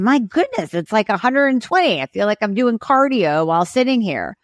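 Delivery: high, startled "my goodness" at the heart rate; alarmed patient. Retold or imitated. Patient checking her watch, startled by her racing heart.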